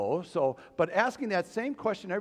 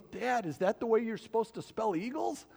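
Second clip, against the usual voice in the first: lightly voiced kid, higher-pitched; a hint of a puzzled boy asking dad; young son; 4 semitones higher than usual. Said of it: "my son at that time was probably around eleven".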